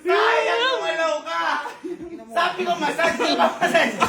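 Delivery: high, laughing teasing shout; excited shouting. Real, not acted. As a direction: crow at the loser, laughing. Friend lost, teasing shout. (masiglang sigaw na may tawa)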